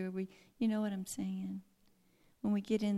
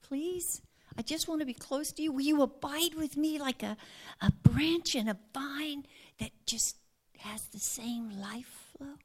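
pleading; 3 semitones higher than usual. Retold or imitated. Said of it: "he was really pleading, going".

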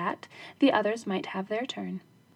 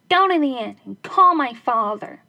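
daughter's voice; 2 semitones higher, 8 dB louder than usual. Acted. Daughter to dog.

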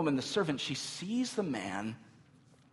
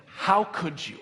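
raised, higher reproach; mild acted yell; 4 semitones higher, 4 dB louder, slower than usual. Traveler confronting servant girl at dawn, mild yell. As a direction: throw it out as an accusation. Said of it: "begins to yell at her".

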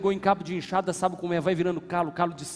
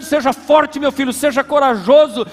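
loud, high firm command; God's command; 6 semitones higher, 10 dB louder, slower than usual. Acted. God urging his son onward, loud and firm. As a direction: command like a father. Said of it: "Deus tá dizendo".

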